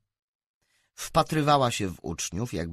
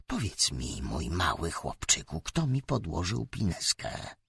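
through gritted teeth; 5 semitones lower, 4 dB quieter than usual. Acted. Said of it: "Zgrzytała zębami".

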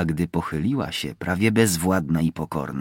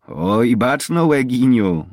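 high, louder, teasing reply; sly amusement; 6 semitones higher, 6 dB louder, slower than usual. A narrator's reading. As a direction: tease slyly with a raised voice. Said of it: "zaśmiała się chytrze". (chytrze, wyższym głosem)

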